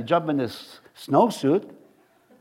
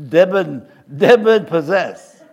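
put-on joking French accent, loud and drawn out; slow, loud mock-French pronunciation; 7 dB louder, slower than usual. Preacher blames his French side for the slip, mock French accent. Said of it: "That's my French accent is coming out".

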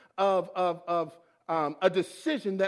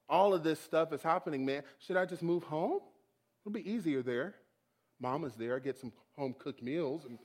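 soft, low, mildly dejected musing; quiet, hurt questioning of God; tearful pleading; 5 semitones lower, 4 dB quieter than usual. Retold or imitated. Near tears in the car, asking God, downcast. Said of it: "my eyes started to water up".

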